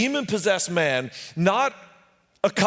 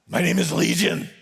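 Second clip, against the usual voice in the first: eerie whisper. Acted. Demon answers Jesus.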